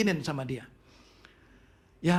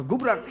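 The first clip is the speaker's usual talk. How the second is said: imitated crash of a dropped phone; 6 semitones higher, 3 dB louder than usual. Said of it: "Langsung handphone saya jatuh".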